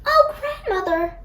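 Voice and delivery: put-on a girl's high surprised gasp. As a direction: catch your breath at the sight. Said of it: "she gasped".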